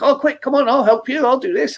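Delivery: fussing helpers. Retold or imitated. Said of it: "everybody's like".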